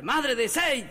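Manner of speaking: high-pitched repeated call; mock yell. Husband calling his unresponsive wife, mock yell. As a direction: call out insistently, without full volume.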